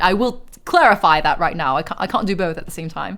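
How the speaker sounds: hammed-up posh Brit setting a rule; posh British accent. Streamer refusing a second redeem at once, posh British accent. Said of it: "on top of the posh Brit".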